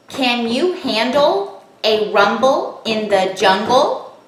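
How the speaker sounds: slow, each syllable tapped apart. Shown as a demonstration. Teacher taps the sentence out for children, slow and syllable by syllable. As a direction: tap out every syllable slowly. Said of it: "Now let's tap it".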